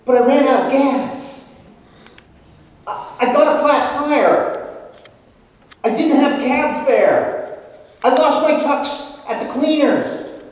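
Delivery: pleading excuses building from high and loud to a shrieking squeal; frantic begging. Retold or imitated. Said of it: "Belushi says".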